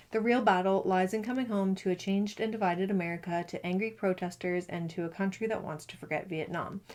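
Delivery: steady book-blurb read-aloud voice. Acted. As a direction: read the back cover to viewers.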